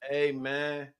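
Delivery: low, drawn-out impression of an actor; Tay Diggs. Comic showing off his actor impression, low imitation voice. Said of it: "my Tay Diggs voice".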